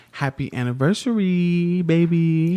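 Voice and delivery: high, bright anniversary greeting to his wife; happy anniversary cheer. Real, not acted. Husband greets wife on their anniversary, high and excited. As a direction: sing it out to her, high and loud.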